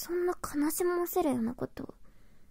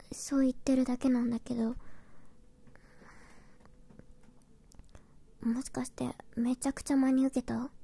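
whispering; 5 dB quieter than usual. Acted. Whispers most lines.

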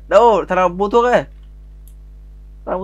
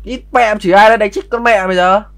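angry cursing; 3 semitones higher than usual. Pretend. Cursing quarrel in the game.

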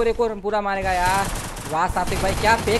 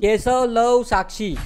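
mocking readout; 3 semitones higher, 5 dB louder, much slower than usual. Reading out a chat name mockingly.

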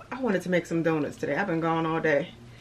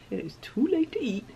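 whispered; 6 semitones higher, 5 dB quieter than usual. Retold or imitated. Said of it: "I'm like".

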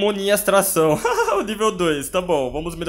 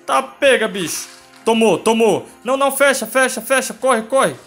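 loud frantic high urging; panicked shouting; 5 semitones higher, 4 dB louder than usual. Real, not acted. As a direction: yell in a rush to escape. Fleeing monster, urging escape.

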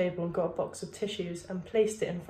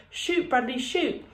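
put-on a light voice of kids urging him on, higher; teammates cheering; 6 semitones higher than usual. The boys cheer Bradley on to shoot, lightly voiced encouraging call. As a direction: call out encouragement to a hesitant boy.

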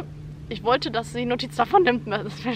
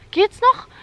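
midwife asking; 10 semitones higher, 10 dB louder than usual. Retold or imitated. Midwife checking in during contractions.

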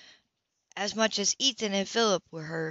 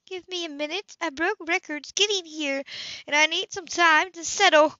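higher woman's voice for Anna, cheerful offer; lightly voiced Anna proposing ice cream; Anna, brightly voiced; 9 semitones higher, 3 dB louder than usual. A narrator's reading. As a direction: lift into Anna, treating the kid. Anna shaken, arriving.

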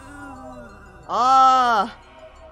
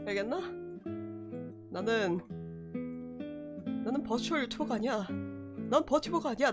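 cute anime streamer; 3 semitones lower, 5 dB quieter than usual. Acted. Low dramatic declaration persona.

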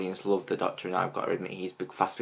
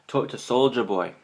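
light mock-Scottish accent, pitched up; attempted Scottish accent; 4 semitones higher, 4 dB louder than usual. Vlogger quoting the Doctor, attempted Scottish accent. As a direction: have a rough go at a Scottish accent. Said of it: "my attempt at a Scottish accent".

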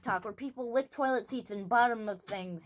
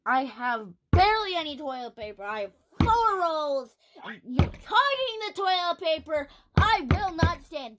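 angry rant; 3 semitones higher, 5 dB louder than usual. Acted. Angry talk show host ranting.

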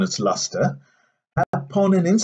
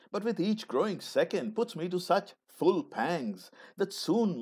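hushed; 9 dB quieter than usual. Acted. Confides an urgent private need.

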